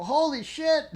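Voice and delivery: pitched high in disbelief; genuinely floored by it; amazed exclamation; astonished. Retold or imitated. Astonished at orange lemon.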